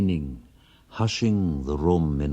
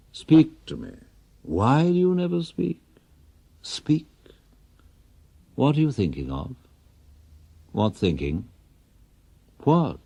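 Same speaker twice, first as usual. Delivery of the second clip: high, tense and pressing questions; a brittle voice rising with each question; anxious pleading wife; 7 semitones higher than usual. Acted. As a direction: beg him to speak, nerves fraying. Nervous wife pleading for an answer.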